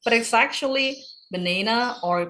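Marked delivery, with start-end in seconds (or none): 1.3-2.0 banana with a NAY middle; American "banana", middle vowel as in "day"; American pronunciation. Shown as a demonstration. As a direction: say banana as buh-NAY-nuh, American style. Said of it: "Banana adalah English, uh, American English".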